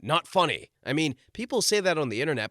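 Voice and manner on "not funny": lightly imitated blunt verdict; a hint of a dismissive star; Mick Jagger. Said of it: "Mick Jagger talked like this".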